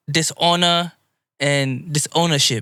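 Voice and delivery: "dishonor" with a dropped final r; odd pronunciation of "dishonor". Real, not acted. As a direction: say it oddly, like "dis-onna". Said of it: "Why'd you say it like that?".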